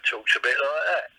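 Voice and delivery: lightly imitated broad Croydon talk; broad Croydon accent. Showing how his wrestler friend talks, broad Croydon accent. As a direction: slip into broad south London. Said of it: "he's kind of broad".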